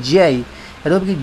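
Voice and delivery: ordinary delivery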